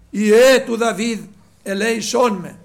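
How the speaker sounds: slow, forceful imitation of crying out. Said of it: "Φώναζε πιο δυνατά εκείνος". (πιο δυνατή, αργή μίμηση κραυγής)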